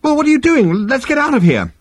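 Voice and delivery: high-pitched, panicky outburst; gibbering panic. A narrator's reading. Arthur learning of an attack, gibbering high-pitched panic. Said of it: "Arthur gibbered".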